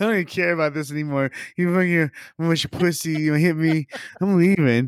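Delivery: high-pitched, blubbering, sobbing cry through tears. Picturing the other speaker running down the stairs: mock crying. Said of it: "that's all I see is you crying".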